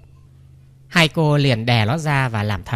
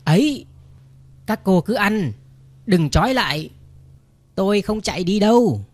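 pitched-up, hammed-up eager cry of protest; mock eager cry; 5 semitones higher than usual. A narrator's reading. Fake mute begs the sisters not to tie him, high mock cry. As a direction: plead high like a mock panicked man. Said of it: "thằng dê la lên".

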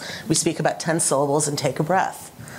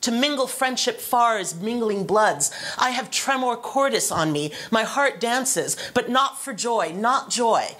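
higher, declaimed verse reading with a halting, uneven beat; Leontes in Shakespearean recitation; 5 semitones higher, slower than usual. Acted. Panelist acting out jealous Leontes to show broken rhythm, halting recitation. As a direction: recite it as a jealous king whose heart skips. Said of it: "he says".

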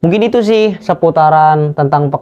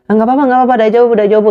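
polite refusal; 8 semitones higher, much faster than usual. Retold or imitated. Japanese coworker declining help.

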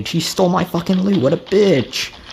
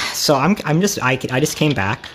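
out of breath; 4 semitones lower than usual. Real, not acted. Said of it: "I'm out of breath right now".

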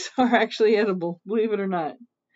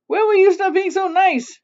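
high, raised, exasperated question; hammed-up screechy complaint; mock shriek; 8 semitones higher, 4 dB louder than usual. Mother Witch to Little Witch, mock shrieking. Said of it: "shrieked Mother Witch".

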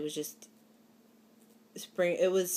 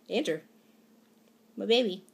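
smiling fondly; 3 semitones higher than usual. Real, not acted. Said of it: "I can't stop smiling right now".

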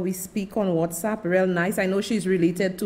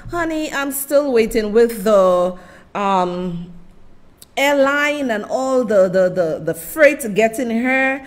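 shouting across; 2 semitones higher, 6 dB louder than usual. Real, not acted. Shouting a message to Anisha.

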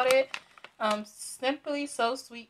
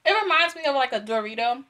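talking with a mouthful of chips; mouth full; 3 semitones higher, 4 dB louder, faster than usual. Real, not acted. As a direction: speak around a mouthful of food. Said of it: "my mouth is full".

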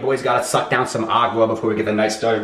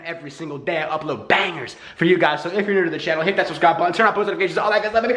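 hyped YouTuber outro pitch; hype intro; 4 semitones higher, faster than usual. Shown as a demonstration. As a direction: pump up the crowd. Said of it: "I'll show you how it's done".

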